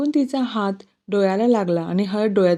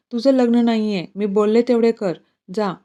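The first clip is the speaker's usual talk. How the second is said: louder, firm angry command; angry order; 4 dB louder than usual. Acted. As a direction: put your foot down with him. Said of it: "ती रागातच बोलते". (रागातच हुकूम)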